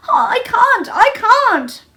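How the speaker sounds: high, loud sobbing plea; gasping sob. A narrator's reading. Colin sobbing helplessly to Mary, high and gasping. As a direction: choke it out through tears. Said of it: "he gasped and sobbed".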